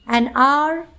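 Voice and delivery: AN HOUR with the H silent, starting on a vowel. Shown as a demonstration. Teacher showing that sound beats spelling, silent H. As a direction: say HOUR like "are", after AN. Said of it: "Sound matters more than spelling".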